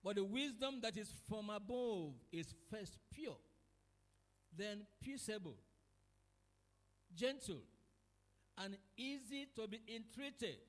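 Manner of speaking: scripture reading. Acted.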